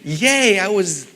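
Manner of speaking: a high, loud yay, then a slow wry question; mock-celebrate, dripping irony; sarcastic mock cheer. Composer joking about being last cut, sarcastic cheer.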